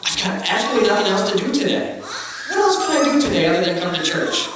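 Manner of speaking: quick, laughing mock-eager musing; mock eager thought. Congregation teased about coming to church, laughing mock enthusiasm. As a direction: poke fun at the idea with a laugh. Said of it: "and thought".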